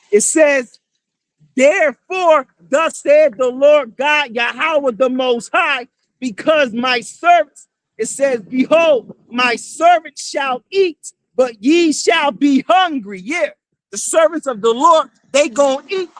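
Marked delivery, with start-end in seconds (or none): 1.5-7.7 slow, booming preacher's reading of scripture; scripture declaimed. Acted. Street preacher reads prophecy to the crowd, slow booming declamation. 8.4-13.2 slow, booming preacher's reading of scripture; scripture declaimed. Acted. Street preacher reads prophecy to the crowd, slow booming declamation.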